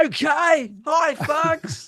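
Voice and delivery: high, loud, shouty presenter voice. Recalling advice to be bigger on camera, greeting the audience: retelling a shout at the audience. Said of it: "I'm shouting at the audience".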